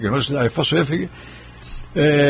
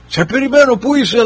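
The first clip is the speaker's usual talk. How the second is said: much higher and louder, calling out; strong loud voice; 9 semitones higher, 4 dB louder than usual. Retold or imitated. Dying friend on the phone, booming high and loud. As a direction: boom it like a man ready for battle. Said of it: "Με δυνατή φωνή".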